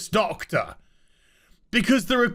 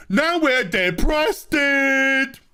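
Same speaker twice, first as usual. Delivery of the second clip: mock shout; 5 semitones higher, slower than usual. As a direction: bellow it like a sulky crew. Mocking crew, shouted.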